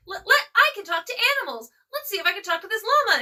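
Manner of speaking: high, eager mock-character voice; imitated film heroine. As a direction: pitch it up, playing a naive heroine. Voicing film heroine about to try animals.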